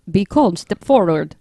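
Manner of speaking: put-on slow, botched African accent that sounds like Dracula; attempted African accent. Host obeying co-host's request, shaky-aimed African accent. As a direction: lightly try an African voice, slowly. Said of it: "Do an African voice".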